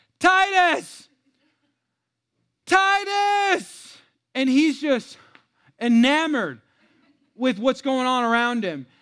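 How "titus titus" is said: high, stretched-out call as if across distance. Recounting yelling to him from far away at SeaWorld, retelling screaming at him. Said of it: "I'm screaming at him".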